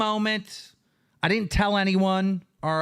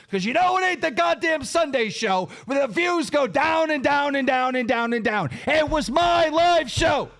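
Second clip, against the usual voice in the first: furious shout; 4 semitones higher than usual. Real, not acted. Ranting at partners over show income, furious shout. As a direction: hammer home who earns the money.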